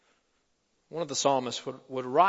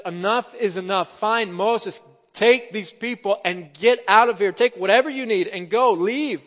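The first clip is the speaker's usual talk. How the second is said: exasperated order to leave, building louder; fed-up Pharaoh; 3 semitones higher, 5 dB louder than usual. Acted. Pharaoh gives in to Moses, fed up. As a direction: give in angrily and send them off. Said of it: "And Pharaoh gives in".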